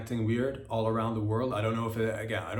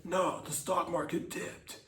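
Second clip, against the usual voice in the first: mock panic; 7 semitones higher than usual. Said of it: "you're like".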